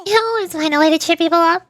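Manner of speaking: expressive visual-novel style reading; game dialogue read-aloud. Acted. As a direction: read the story lines aloud with light acting.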